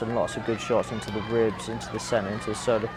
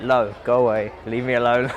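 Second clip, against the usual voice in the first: louder, a fed-up push-away; irritated yell; 6 dB louder than usual. Retold or imitated. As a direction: shove the coach off with your voice. Retelling yelling at coach.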